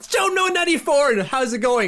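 big mock-hype announcer energy; all pumped up. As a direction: imitate an over-pumped podcast host. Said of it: "We're getting all pumped, like".

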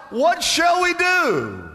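high, slow desperate plea; crying out. Retold or imitated. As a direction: cry out for an answer. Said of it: "the people cried out".

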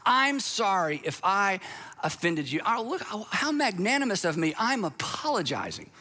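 a hint of patting yourself on the back; smug apology. Pastor mocking a self-congratulating apologizer. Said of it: "we say things like this".

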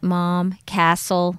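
imitating a small son's American accent. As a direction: say it with American vowels. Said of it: "turned into an American accent".

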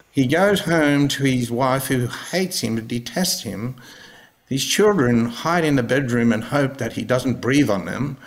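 a hint of a slowed nature-documentary narrator; David Attenborough impression. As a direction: keep the mock documentary voice going, describing his home life. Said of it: "I fucking give him the best David Attenborough".

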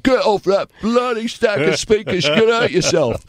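high, mocking English bouncer accent; shouted English bouncer impression. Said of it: "again with an English accent".

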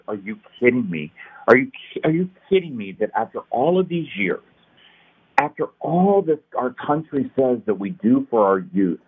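retold disbelief, building in emphasis; appalled, can't-believe-it questioning; incredulous outrage. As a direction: relive your indignant disbelief, leaning on key words. Retelling outrage at trash bags.

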